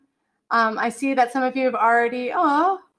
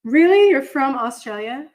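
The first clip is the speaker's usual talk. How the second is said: mock surprise; 3 dB louder than usual. Shown as a demonstration. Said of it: "and you would say".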